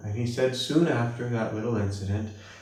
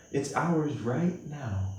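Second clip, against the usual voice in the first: normal talking voice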